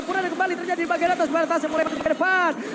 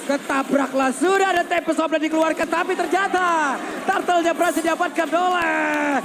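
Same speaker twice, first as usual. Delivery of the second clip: esports caster. Real, not acted. Caster reacts to team fight.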